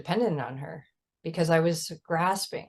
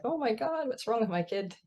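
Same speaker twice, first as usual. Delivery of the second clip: panicked; 6 semitones higher, 5 dB quieter than usual. Retold or imitated. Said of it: "he was crying".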